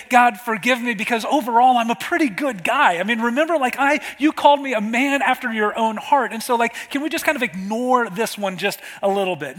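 lightly acted bargaining, quickening toward the end; self-excusing plea. David pretends to excuse himself to God, mock self-excusing plea. Voices a prayer David doesn't pray.

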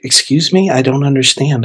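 baffled question, starting high; confused classmate. Retold or imitated. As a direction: imitate someone who is not following. Classmate confused by repeated phrase.

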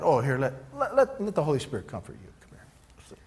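gentle coaxing fading to a breathless hush; hammed-up soothing, trailing into near silence; mock tender comfort. Jesus imagined comforting the terrified disciples, mock tender. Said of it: "try to say that as nice as you can".

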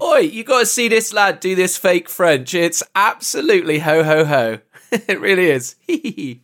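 soldier calling mates. Pretend. Soldier calling others to see the fake French, mock excited. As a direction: hail your mates over a hilarious joke.

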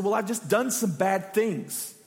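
slow, mock-humble confession. Imitating someone giving a falsely humble answer. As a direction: act out a humble-sounding admission, slowly. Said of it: "they think that that's a very humble response".

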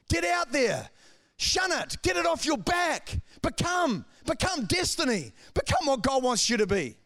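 preacher urging the congregation upward; preaching at full force. Acted. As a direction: drive the charge home. Rising exhortation.

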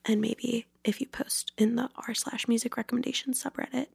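hushed secret plug; whisper. Pretend. Host whispering a sneaky plug to listeners. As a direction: whisper it like subliminal messaging.

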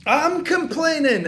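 loud, high, slow yell. Retold or imitated. Tenant yells at landlord, furious. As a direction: throw the words at him. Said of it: "I yelled at him".

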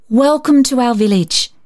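reading aloud. Acted. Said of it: "she read".

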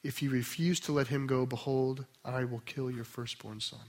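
soft, low reading of a solemn verse; scripture reading. Acted. Preacher quoting God's warning to Pharaoh, quiet scripture reading. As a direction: read the verse quietly, letting it fall away.

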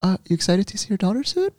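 high, gentle imitation of a doctor; soft and calm. Doctor asking the nervous father about his daughter, soft and calm. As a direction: ask gently in a lifted, soothing voice. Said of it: "so soft and calm".

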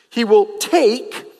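"take" set apart with weight; stress on take. Real, not acted. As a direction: lean on "take", then move on. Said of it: "I emphasize the word over and over".

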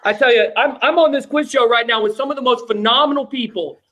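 lightly voiced bragging politician; hint of a boastful president, laughing; Donald Trump. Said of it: "How did Donald Trump get".

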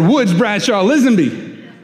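slow, drawn-out mock warning from mom; scolding full name. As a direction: spell out each name like a mother who found the mess. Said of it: "She said".

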